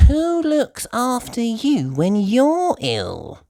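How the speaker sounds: high, slow curious piggy voice; high childlike question; Peppa asking. Acted. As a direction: ask with concern. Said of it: "asks Peppa".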